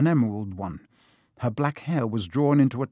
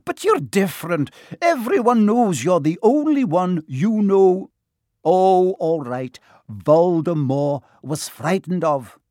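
higher, crisp stern Scottish teacher; a prickly old witch caught out, higher; startled stern witch, pitched up; prim Professor McGonagall; 5 semitones higher, 7 dB louder than usual. Acted. McGonagall flatters Dumbledore.

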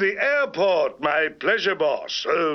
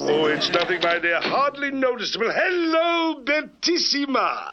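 crooning Italian charmer; smooth Latin lover greeting; purring latin lover; 5 semitones higher than usual. Acted. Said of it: "Hello, Latin lover".

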